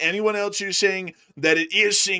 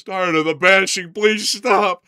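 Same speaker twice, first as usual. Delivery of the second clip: mock whiny plea; 6 dB louder, slower than usual. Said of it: "Someone says".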